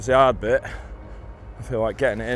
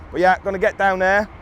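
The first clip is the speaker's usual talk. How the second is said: excited; 4 semitones higher than usual. Real, not acted. Excited heading off to fish.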